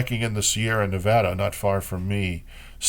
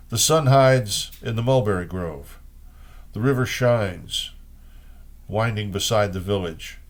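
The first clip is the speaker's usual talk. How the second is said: measured, unhurried poetry recital; reading old Chinese poems in translation. Acted. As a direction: let each image land, like reading verse aloud. Reads Wang Wei poems.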